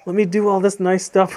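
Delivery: lightly mocking, fawning tone; flattering. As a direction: suck up to him sweetly. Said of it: "Buttering him up".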